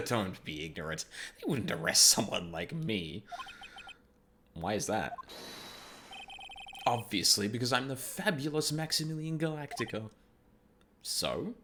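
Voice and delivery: lightly voiced flamboyant showman; a hint of a fabulous star; Max voice.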